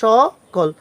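সকল with an open first vowel, "shaw-kol"; correct pronunciation. Shown as a demonstration. Teacher sounds it out for students, সকল pronounced "shaw-kol". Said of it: "এখানে হবে কি".

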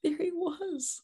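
high, soft voice of wonder; tender awe. Acted. Mother beholding the long-awaited child, in tender awe. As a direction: float it up softly, full of wonder.

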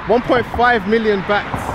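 One point five million bahts, said slowly and high with every word weighted; slow, high, amazed emphasis on One point five million bahts; slow emphatic amazement. Real, not acted. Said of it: "I'm gonna say it again".

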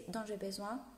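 ordinary talk, nothing marked

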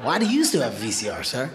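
incredulous, laughing at himself; a laugh through the disbelief; laughing mockery. Comic laughing at an old man with a VCR.

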